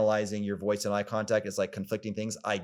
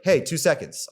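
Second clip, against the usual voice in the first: a mock-angry, louder snap; a touch of mock anger, pitched up; breaking rapport tone; 6 semitones higher, 4 dB louder than usual. Shown as a demonstration. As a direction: cut in firmly, almost angry. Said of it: "that breaking for rapport tone ... almost, like, angry".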